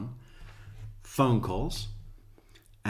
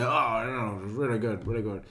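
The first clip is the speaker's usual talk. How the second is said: fake polite praise. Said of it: "you have to pretend".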